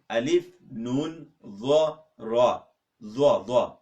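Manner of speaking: Alif, nun, dha, ra spelled slowly, letter by letter; spelling letters. Shown as a demonstration. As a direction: spell unzur out in Arabic letters.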